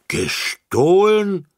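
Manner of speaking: very high, loud, slow indignant question; children crying out indignantly at the news; outraged cry. A narrator's reading. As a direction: cry out in shocked disbelief. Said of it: "riefen die Kinder empört".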